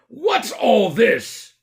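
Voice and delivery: slow, high, loud query; policeman. Acted. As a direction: drag out the question. Policeman questions.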